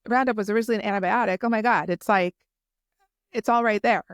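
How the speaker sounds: real mild excitement, rushing then breaking off; a little excited. Real, not acted. Podcaster marvelling to listeners at what she learned, a little excited. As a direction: get slightly carried away by the discovery. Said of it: "I'm getting a little excited".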